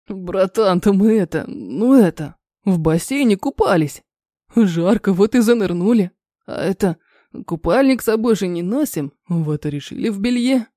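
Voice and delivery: низко и неразборчиво, виновато; промямлить оправдание, глотая слова; робкое мямленье. Acted. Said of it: "робко мямлит оправдание, зажёвывая и проглатывая слова". (робко мямлит, проглатывая слова)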